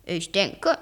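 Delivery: low, composed reply with a smile; smiling calm. A narrator's reading. Professor confirming to his nephew, smiling calm. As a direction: answer calmly, lightly smiling. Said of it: "sagte der Professor lächelnd".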